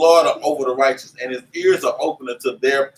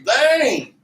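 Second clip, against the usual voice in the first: much higher, hammed-up exasperated call; exasperated outburst; 8 semitones higher than usual. Preacher retelling his outburst at chatty back-row churchgoers, high and exasperated. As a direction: blurt it out like you've had enough. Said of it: "I'm like".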